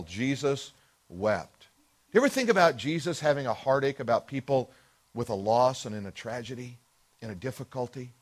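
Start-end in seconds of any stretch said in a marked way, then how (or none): 0.0-1.7 slow solemn emphasis. Shown as a demonstration. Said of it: "The shortest verse in the Bible".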